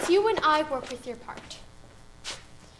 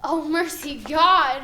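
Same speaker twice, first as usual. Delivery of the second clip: projected; 6 dB louder, slower than usual. Shown as a demonstration. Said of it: "Show me what the words say".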